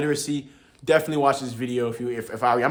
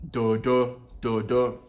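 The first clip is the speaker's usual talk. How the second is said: "Do, do" on a low falling tone; much slower than usual. Shown as a demonstration. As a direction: keep each "do" down low. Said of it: "that's the low intonation".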